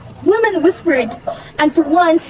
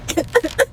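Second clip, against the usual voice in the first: short, acted sob; sobbing breath; 4 dB quieter than usual. Wife regretting her wish to shine, small sob.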